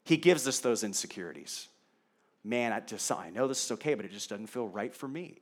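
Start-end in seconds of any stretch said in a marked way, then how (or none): 2.4-5.4 soft, lower musing to oneself; hesitant inner voice. Acted. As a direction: voice a private doubt quietly, half under the breath. Voicing a believer's inner doubt.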